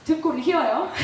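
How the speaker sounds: joking aside breaking into a laugh; light, laughing self-mockery; laughing complaint. Real, not acted. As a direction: say it with a rueful laugh. Joking about repaying student loans.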